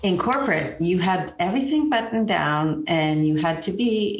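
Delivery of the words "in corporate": ordinary delivery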